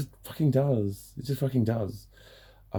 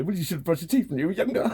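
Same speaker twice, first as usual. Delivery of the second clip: smug mock advice; 8 semitones higher, faster than usual. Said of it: "smile at you and go".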